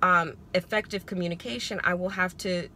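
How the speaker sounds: even, careful, unhurried wording; calm and measured. Retold or imitated. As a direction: say it calmly, choosing each word. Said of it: "I said it just like that".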